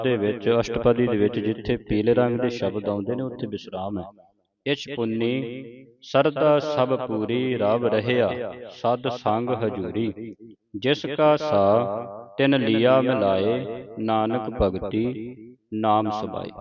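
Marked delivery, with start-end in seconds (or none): 4.7-16.5 slow, drawn-out reading of verse; scripture recitation. Acted. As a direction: recite it slowly, word by word. (ਧੀਮਾ ਗੁਰਬਾਣੀ ਪਾਠ)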